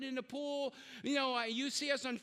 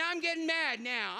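normal talking voice

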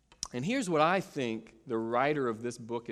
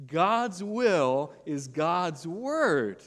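each word drawn out, "word" falling at the end; slow emphatic call-and-response; 3 semitones higher, 4 dB louder, much slower than usual. Shown as a demonstration. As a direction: lead the congregation slowly through "God's will is God's word". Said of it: "Can you just say that with me for a second?".

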